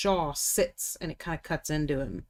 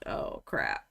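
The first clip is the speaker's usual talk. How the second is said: breathy whisper of dread; 6 dB quieter than usual. Retold or imitated. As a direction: whisper it in quiet panic. Panicking over others' submissions.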